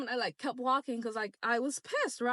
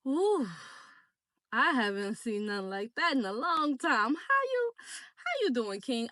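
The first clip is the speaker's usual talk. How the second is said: mock flirty. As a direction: tease him like you're suddenly into it. Retold flirty message.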